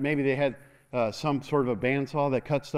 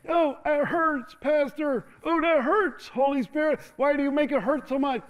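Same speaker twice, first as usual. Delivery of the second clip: mock pained believer; 11 semitones higher than usual. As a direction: whine like it really hurts, hammed-up. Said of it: "and was like".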